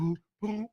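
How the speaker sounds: mimicked jug notes. Playing the water jug anthem for the co-host, mimicked jug notes. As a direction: puff out quiet musical booms.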